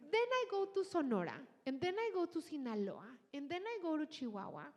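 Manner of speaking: rising up bright and quick on each new state; building excitement. Real, not acted. Host excitedly listing the regions she discovered, building excitement. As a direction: let the wonder build with every place you name.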